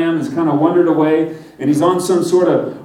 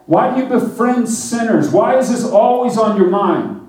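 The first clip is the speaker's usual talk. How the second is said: higher, pressing questions to Jesus; puzzled questioning; 4 semitones higher than usual. Acted. Followers pressing Jesus with puzzled questions, higher voice. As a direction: ask like a baffled follower.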